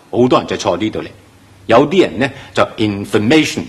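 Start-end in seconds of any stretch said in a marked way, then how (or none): 2.8-3.6 information開頭輕輕帶過，冇次重音; 讀information時唔好重讀開頭; 錯誤示範，冇次重音. Shown as a demonstration. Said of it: "其實係錯咗嘅". (錯讀information，開頭冇力)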